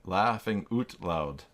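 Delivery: OUT said as "oot", slowly; mock Canadian pronunciation. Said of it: "L U L is a Canadian version".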